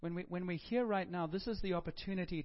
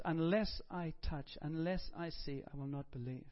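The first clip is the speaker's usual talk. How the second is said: slow, deliberate, each condition set apart; slow stubborn Thomas. Pretend. Thomas slowly setting his terms before he believes. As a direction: lay out the demand slowly, word by word. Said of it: "And Thomas says".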